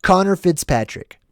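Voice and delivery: plain American accent; the name in an unexaggerated American accent. Shown as a demonstration. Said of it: "I'll say it in more of my American accent".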